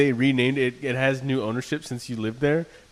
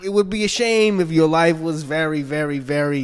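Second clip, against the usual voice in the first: a lightly voiced veiled threat, higher pitched; menacing like a shady landlord, half-joking, a bit higher; mock threatening clerk; 5 semitones higher than usual. Clerk hinting a threat to the tenant, lightly higher mock menace.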